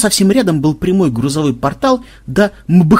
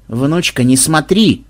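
nervous; slower than usual. Acted. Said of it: "нервно проговорила Мелисса".

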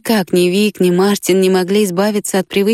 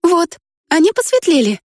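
put-on much higher girl voice, delighted; girl's voice, amazed; 10 semitones higher than usual. A narrator's reading. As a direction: gasp at his eyes lightening.

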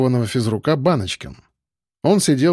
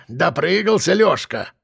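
put-on higher, slow gloating old voice; gloating old man; 3 semitones higher than usual. A narrator's reading. Old watchman gloating over the arrested coach, slow and high. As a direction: savour it like a spiteful old man. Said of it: "злорадствовал старик".

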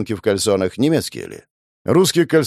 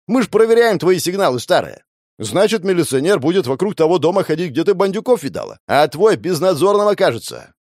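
shouting; 7 semitones higher, 4 dB louder than usual. Acted. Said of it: "прокричал Жуков".

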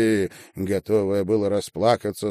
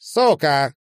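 loud curse hurled after her; spat curse; 6 semitones higher, 6 dB louder than usual. Acted. Marina throwing Sasha out onto the landing, loud and disgusted. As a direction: spit it out with disgust.

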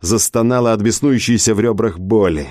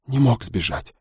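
breathed out; 5 dB quieter than usual. Acted. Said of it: "выдохнула Хана".

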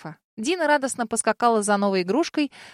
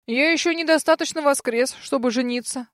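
venomous voice; 3 semitones higher than usual. Acted. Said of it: "раздался ядовитый голос дракона".

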